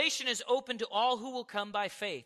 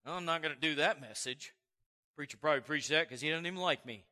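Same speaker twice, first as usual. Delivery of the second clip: low, muttered complaint of a sulky listener; mock the congregant who skips the message; grumbling churchgoer; 6 semitones lower, faster than usual. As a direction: congregant sulking about the preacher.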